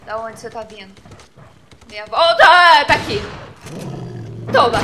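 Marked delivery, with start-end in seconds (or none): 1.9-4.8 being chased. Real, not acted.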